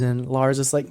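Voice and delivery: ordinary talk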